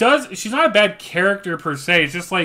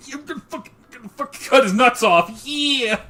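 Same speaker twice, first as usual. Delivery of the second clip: high laughing hype yell; hyped; 7 semitones higher than usual. Retold or imitated. Fan hyped about killing the villain, laughing yell. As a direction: cheer through a laugh. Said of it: "I remember being so hyped".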